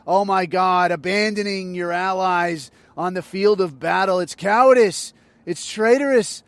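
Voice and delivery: mock the pundits' pearl-clutching; mock whining pundit. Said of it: "they're out there bitching".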